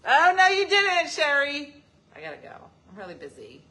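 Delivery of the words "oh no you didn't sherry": sassy retort. Real, not acted.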